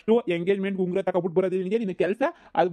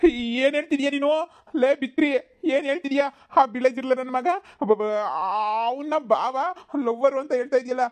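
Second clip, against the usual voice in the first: outraged yelling; 5 semitones higher than usual. Acted. Cousin yells at the girl praising the lover, outraged. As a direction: yell in disbelief at the cousin's crush. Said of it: "ಯಾಕ್ಲ ಹಿಂಗ್ ಬಾಯ್ ಬಡ್ಕತಾ ಇದೀಯಾ?".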